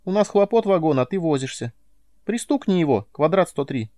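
high squeaky little creature voice; high-pitched squeaky alien; Nelka's squeaky voice. A narrator's reading. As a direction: squeak it out, callous and careless. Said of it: "Нелкин голос".

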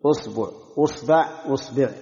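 أصبع said as usba', then usbu', then usbi'; hamza with damma, three ba vowels. Shown as a demonstration. Teacher listing the damma forms of the word for finger. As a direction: drill أصبع starting on u, changing the ba each time. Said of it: "ضم الهمزة".

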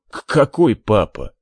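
stammering through a cough; words broken by coughing. Acted. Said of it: "подавился и зашёлся кашлем".

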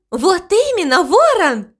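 excited call. A narrator's reading. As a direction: call to him with joy. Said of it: "крикнула мама Му".

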